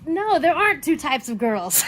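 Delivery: a loud, high-pitched protest; exasperated outburst. Retold or imitated. Rejecting the two-types-of-girls joke, loud and exasperated. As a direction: shout it down like it's absurd. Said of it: "and I'm just like".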